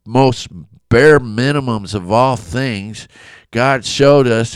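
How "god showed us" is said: usual speaking voice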